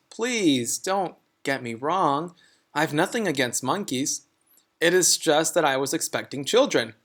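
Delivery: smooth things over like a kindly teacher; apologetic teacher voice. Acted. Mrs Jewls voiced in story.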